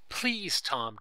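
high, loud plea falling away; desperate narrated entreaty; begging. A narrator's reading. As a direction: plead urgently, starting high and loud. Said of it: "Daisy begged again".

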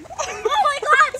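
loud, slow cry of disgust; disgusted shout. Real, not acted. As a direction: yell it out, revolted. After throwing up.

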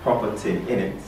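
put-on softly tried British accent; attempted British accent. Learner practises for the teachers, attempted British accent. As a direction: rehearse "Proper thing" in a British accent. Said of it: "a little bit of the British accent".

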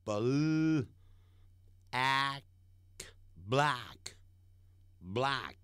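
black stretched very slowly, open wide a vowel; slow model of black; drawn-out black. Shown as a demonstration. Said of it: "念的时候念成".

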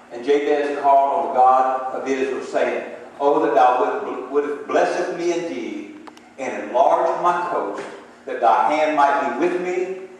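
slow, solemn reading of the prayer; scripture reading. Real, not acted. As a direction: read it like a prayer, slowly.

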